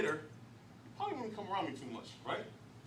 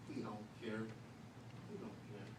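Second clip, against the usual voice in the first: lower, much softer, shrugging it off; low dismissive aside; 9 semitones lower, 12 dB quieter, slower than usual. Retold or imitated. Preacher saying the O G doesn't care, low and dismissive. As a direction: drop it low like it means nothing. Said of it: "preacher voicing indifferent O G".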